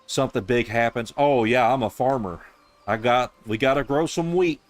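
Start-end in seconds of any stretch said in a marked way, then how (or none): 1.2-2.4 higher and louder, a dopey carefree farmer; mock the clueless villager, hammed up; mock NPC farmer. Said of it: "Fucking Dawn Trail was like". 2.9-4.6 higher and louder, "wheat" falling; hammed-up dopey farmer on "we gotta grow some wheat"; mock NPC farmer. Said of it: "Fucking Dawn Trail was like".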